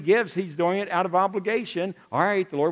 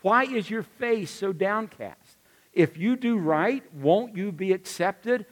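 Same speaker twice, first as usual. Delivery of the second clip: gentle therapist; 3 semitones higher than usual. Acted. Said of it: "like a good therapist would".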